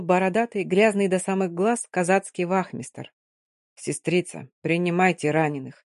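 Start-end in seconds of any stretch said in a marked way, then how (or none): 3.7-5.8 tired bass. Acted. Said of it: "усталым басом произнёс он".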